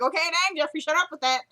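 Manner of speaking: high, loud, comic fed-up outburst; mock exasperation. Viewer tired of Jeffrey's repeated apology, mock exasperated and loud.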